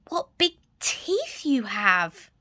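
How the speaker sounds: slow, breathy whisper. Acted. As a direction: whisper it in fear, slowly. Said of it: "Little Red whispered".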